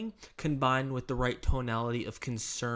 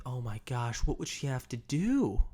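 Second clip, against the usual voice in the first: softened, leaning-in worry; soft concern. Shown as a demonstration. Agent asking about a client's wife, soft and concerned. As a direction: start softly and stretch out the worried question. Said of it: "You wanna have this softness".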